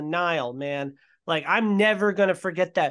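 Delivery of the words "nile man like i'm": usual speaking voice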